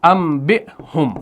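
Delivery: انبئہم said slowly as "am-bi-hum", N turned to M; slow "ambihum" for انبئہم; pronounced with meem. Shown as a demonstration. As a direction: close the lips on M in انبئہم. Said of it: "میم سے تلفظ کریں گے".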